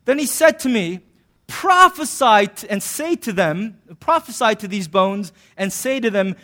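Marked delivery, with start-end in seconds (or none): 1.5-6.3 mock grand proclamation. Reading God's command in Ezekiel.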